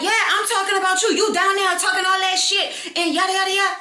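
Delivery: high, loud mock telling-off; retold confrontation. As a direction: imitate a rival yapping at you. Imitates woman confronting her in quarrel.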